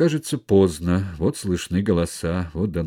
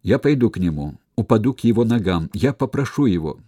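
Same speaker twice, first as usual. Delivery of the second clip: louder, fast determined vow; resolute; 4 semitones higher, 5 dB louder, faster than usual. Acted. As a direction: say it with sudden courage. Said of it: "полной решимости проговорила".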